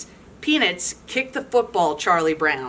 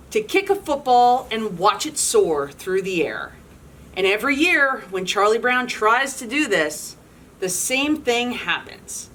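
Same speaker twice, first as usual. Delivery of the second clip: lively storybook read-aloud; animated picture-book narration; reading to children; 2 semitones higher than usual. A narrator's reading. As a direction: read it to a room of kids.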